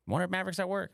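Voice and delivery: high, mock-innocent mom; mom wondering. Mocking mom who checks his location, high innocent voice. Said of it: "and you're like".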